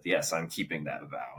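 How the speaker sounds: a hint of a grave superhero voice; Batman. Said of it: "his Batman voice when he said".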